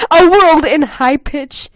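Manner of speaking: slow high squeal of the phrase; high-pitched demo. Shown as a demonstration. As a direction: act out blaring in a high voice. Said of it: "in a high-pitched voice".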